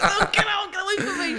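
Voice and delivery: high, loud comic alarm; mock panic. Frightened stranger fleeing the Scouse speaker, mock panic. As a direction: yelp it as if fleeing, half laughing. Imitating scared American fleeing.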